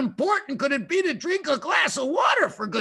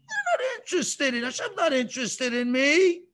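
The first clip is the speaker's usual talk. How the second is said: a mild, hammed-up plaintive protest; dejected slave's disbelief; 3 semitones higher than usual. Jewish slave feeling forgotten by God, plaintive. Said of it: "what do you think the Jews were beginning to think?".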